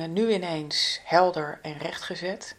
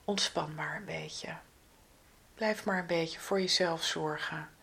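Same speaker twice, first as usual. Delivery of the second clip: soft whisper close to the ear; 6 dB quieter than usual. Pretend. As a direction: breathe it gently into their ear. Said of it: "er wordt ons eigenlijk ingefluisterd".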